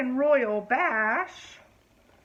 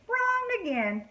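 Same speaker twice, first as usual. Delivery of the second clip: fairy voice; 3 semitones higher than usual. Acted.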